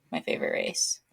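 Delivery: breathy whisper, voice dropped away; whispered aside. Shown as a demonstration. Repeating her race in a bitter whisper.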